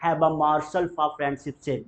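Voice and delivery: slow, every word apart; slow teacher demo; slow model sentence. Shown as a demonstration. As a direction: dictate it clearly. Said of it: "morsel मतलब कौर".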